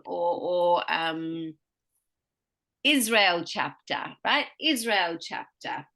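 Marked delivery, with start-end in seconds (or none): 2.8-4.2 Israel punched slowly, chapter lighter; stress on first word. Shown as a demonstration. Teacher showing two-noun stress, Israel stronger than chapter. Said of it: "there's more emphasis in that first". 4.6-5.9 Israel stronger, chapter falling away; stress on first word. Shown as a demonstration. Teacher repeating the example, stress on Israel before chapter. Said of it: "there's more emphasis in that first".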